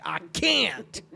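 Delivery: pained outburst from a sketch character; mock yelling. Retelling a comedy sketch to friends, mock yelling. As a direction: yell it as a comic confession. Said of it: "Why are you yelling at me?".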